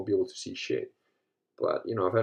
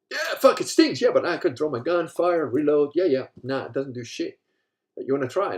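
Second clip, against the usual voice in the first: high, loud tough-guy dad shrugging off the sting; dad after being pepper sprayed, hammed-up and loud; hammed-up stung dad; 7 semitones higher, 6 dB louder than usual. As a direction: brag through the burn as the father.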